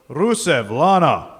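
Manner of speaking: slow, put-on Russian accent. Wrestler recalling his Raw promo in a mock Russian accent. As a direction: drag out "Rusev Lana" in a hammed-up Russian accent. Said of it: "I can't even remember the accent".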